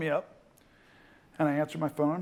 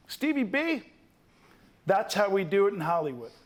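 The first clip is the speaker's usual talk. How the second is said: Hollywood producer; 2 semitones higher than usual. Retold or imitated. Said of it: "The guy goes".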